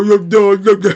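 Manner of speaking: mock Cat flipping into hype mode; hyped tone switch. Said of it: "change his voice tone mid-sentence".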